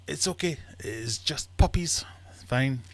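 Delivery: hammed-up soldier calling all clear; German soldier. German soldier dismissing puppies in the sack, high acted voice. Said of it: "The German goes".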